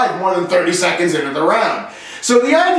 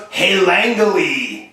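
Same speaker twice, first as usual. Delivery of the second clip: put-on French Canadian accent; much slower than usual. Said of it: "he was French, he was from Quebec".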